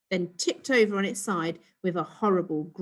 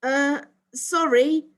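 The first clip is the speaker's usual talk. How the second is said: smirking; 7 semitones higher, 6 dB louder, slower than usual. A narrator's reading.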